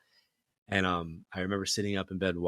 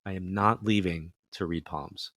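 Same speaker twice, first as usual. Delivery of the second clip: smiling calm reply; slower than usual. Retold or imitated. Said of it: "And I smiled and I said".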